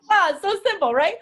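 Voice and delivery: high, loud and gleeful; bubbling over with delight. Real, not acted. Teacher delighted after game.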